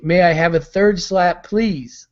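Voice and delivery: eager little beggar's plea, rising high on please; imagined prisoner gladly asking for another slap; mock grateful plea. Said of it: "you think".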